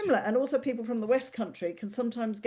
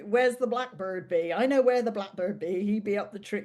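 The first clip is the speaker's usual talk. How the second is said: mock Somerset accent. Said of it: "Or you get the".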